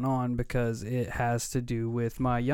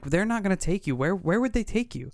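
put-on pitched-up dad talking to a small child; mild retold reassurance; 7 semitones higher than usual. Dad asking his son where they'd take him, lightly acted reassurance. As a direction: lightly act out calming a kid with questions, higher voice.

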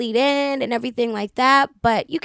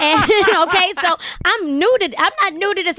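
laughing, high and louder; 9 semitones higher, 5 dB louder than usual. Real, not acted. Laughing at her own audition story, high and bubbling over. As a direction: laugh through the words.

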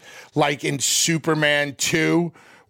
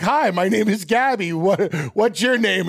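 mock friendly greeting; 4 semitones higher than usual. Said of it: "and you're like".

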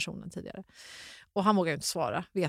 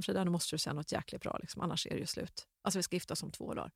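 urgent hushed plea; 6 dB quieter, faster than usual. Retold or imitated. Fiancé pleads in the night.

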